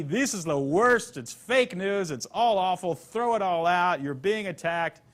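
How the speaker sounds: a lightly voiced slow, emphatic rant at the press; hint of a political strongman, dragging each claim out; Donald Trump rant. Speaker mock-voicing a villain's speech to the audience, lightly hammed-up. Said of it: "It's gotta be".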